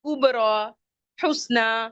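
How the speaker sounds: कुबरा, हुस्ना each sounded out with a long final aa; कुबरा, हुस्ना as separate teaching examples; pronunciation demo. Shown as a demonstration. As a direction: carefully enunciate कुबरा and हुस्ना, holding the endings. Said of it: "इसका तलफ़ुज़ जो है वो".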